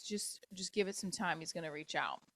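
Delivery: hushed, breathy reassurance; whisper. Retold or imitated. Retelling a friend's hushed advice, whispered. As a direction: whisper it like a secret comfort.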